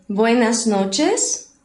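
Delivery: very drawn-out "Buenas noches", rising at the end; slow repeat-after-me model. Shown as a demonstration. Spanish teacher models greetings for the class, slow and deliberate. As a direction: stretch "Buenas noches" slowly, lift the last word. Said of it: "Repitam depois de mim".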